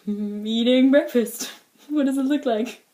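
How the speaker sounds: playful, exaggerated self-quote; mock-sassy comeback. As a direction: answer as if it's obvious. Acts out her cheeky comeback.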